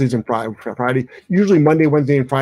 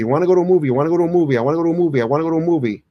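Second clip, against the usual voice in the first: put-on nagging kid; 3 semitones higher, much faster than usual. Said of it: "whine and cry too".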